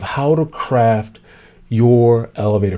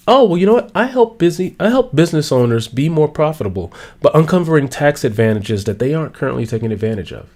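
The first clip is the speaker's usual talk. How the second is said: confident pitch; 2 semitones higher than usual. Shown as a demonstration. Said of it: "here's a better way Susie could have introduced herself".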